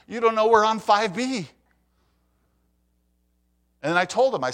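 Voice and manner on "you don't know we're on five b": exasperated, raised voice at the class; a frustrated teacher losing patience; mock-exasperated teacher voice. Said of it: "I was getting so frustrated".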